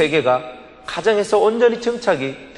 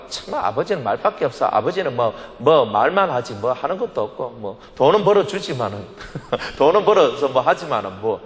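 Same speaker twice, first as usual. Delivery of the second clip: lightly voiced sarcastic grumbling, lower pitch; mocking grumble; 5 semitones lower than usual. Family grumbling about father who only talks, lightly mocking. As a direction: imitate family members sneering about a useless father. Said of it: "빈정대기나 하는".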